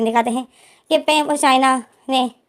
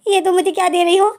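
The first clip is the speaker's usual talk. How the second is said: high, startled "what is this" to his friend; Wing stares at the pad packet, high and shocked; 7 semitones higher than usual. Retold or imitated. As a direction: voice jumps up in disbelief.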